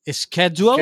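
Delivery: SCHEDULE como "skédiual"; pronunciación inglesa. Shown as a demonstration. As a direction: say "schedule" with an SK start. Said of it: "la de decir agenda". ("schedule" dicho "skédiual", con sk inicial)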